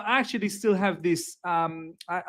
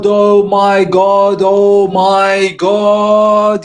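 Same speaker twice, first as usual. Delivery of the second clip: shrieking jackpot winner; 12 dB louder, much slower than usual. Real, not acted. Ecstatic celebration after Al Hilal win.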